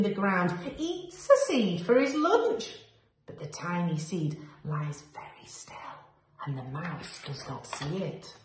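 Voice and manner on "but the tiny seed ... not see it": hushed. A narrator's reading. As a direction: lower and much softer, holding still. Seed hides from the mouse.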